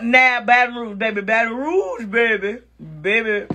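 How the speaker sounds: playful imitation of Baton Rouge accent; attempted Louisiana accent. Shown as a demonstration. Comic showing listeners Nola accents, imperfect Baton Rouge accent. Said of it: "I still didn't say it right".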